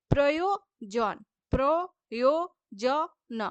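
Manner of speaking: প্রয়োজন said slowly with pauses between syllables; slowly spelled out. Shown as a demonstration. Teacher sounding out প্রয়োজন slowly for students. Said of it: "এমনি বলছি আমরা".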